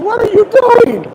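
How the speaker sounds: high, loud disbelieving yell; exasperated shout. Retold or imitated. Guide yells at his guest for losing the fish, high and exasperated. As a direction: throw up your hands at him.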